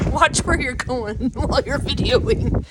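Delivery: laughing. Real, not acted. Laughing at the camera person.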